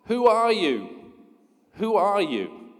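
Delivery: slow, high, loud echo, then fading; a mountain echo that dies off; echoing answer. Acted. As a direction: throw the question back like an echo. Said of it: "He receives the answer".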